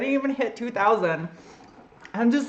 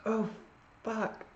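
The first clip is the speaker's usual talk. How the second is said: pained laughing gasp; 5 semitones higher, 5 dB louder than usual. Real, not acted. Burning mouth after hot pepper.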